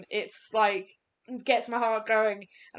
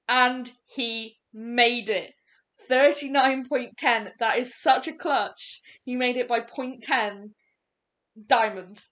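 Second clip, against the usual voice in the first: slow, emphatic triumph, punched out; real relieved elation; 3 dB louder than usual. Real, not acted. Hunter announces his long-awaited diamond grey wolf, relieved and elated. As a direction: let the relief pour out, word by weighty word. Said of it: "I am so relieved".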